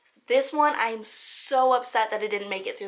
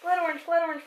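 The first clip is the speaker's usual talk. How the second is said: whisper; 5 semitones higher, much faster than usual. Real, not acted. Hunting for the tea.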